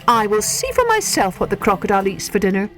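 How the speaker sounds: high little voice, frustrated but eager; young elephant child. A narrator's reading. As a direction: plead like a small curious child.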